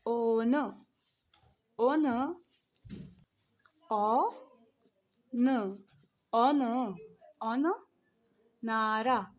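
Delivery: "ओन" called out loudly, syllable by syllable; syllable-by-syllable drill. Shown as a demonstration. Teacher sounding out each syllable while writing on the board. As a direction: stamp each syllable as you write it. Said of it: "लिख के दिखाती हूँ".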